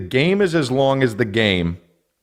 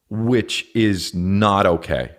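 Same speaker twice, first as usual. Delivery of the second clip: ordinary talk, nothing marked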